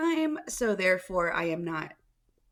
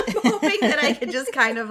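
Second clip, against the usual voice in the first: laughing; 4 semitones higher, 5 dB louder than usual. Real, not acted. Laughing through the line.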